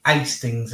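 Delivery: Hastings without the H; dropped H. Shown as a demonstration. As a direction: say Hastings as astings. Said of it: "as we say. No H".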